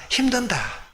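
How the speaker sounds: high, pained moan of "it's hard"; mimicking a worn-out believer. Pastor imitates a struggling churchgoer, high whiny moan. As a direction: whine it out like someone fed up with life. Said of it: "한번 따라하겠습니다".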